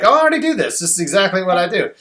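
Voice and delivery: high, loud know-it-all follower voice; mock-proud listener brushing it off; smug follower. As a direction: play a fan who already does it all, pleased with themselves. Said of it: "people that have been following me will be like".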